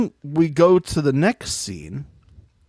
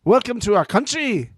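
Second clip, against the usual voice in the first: put-on South African accent; 6 semitones higher than usual. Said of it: "to do the South African accent".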